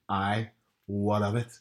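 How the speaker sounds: slow, defiant Belfast retort; imitated Belfast mother, unhurried challenge; Northern Irish mum. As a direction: stand your ground in thick Belfast. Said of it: "Northern Irish mum".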